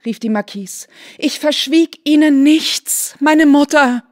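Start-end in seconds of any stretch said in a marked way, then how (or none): 1.2-4.0 slow, high, louder pleading oath; full of pathos. A narrator's reading. Kneeling daughter swears to her mother, with pathos. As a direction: swear it with all your heart. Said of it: "voll Pathos getan".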